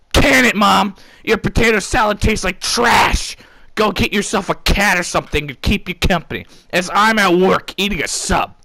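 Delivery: high, loud rude outburst; hammed-up rant at mom; mock snapping. Son snapping at his mom on the phone, loud.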